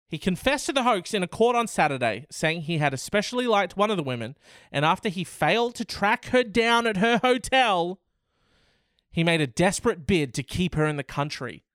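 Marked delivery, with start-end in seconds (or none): 0.1-8.0 faster, rising reread in disbelief; disbelieving reread. Acted. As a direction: reread "He confessed to the hoax" quicker and higher, astonished.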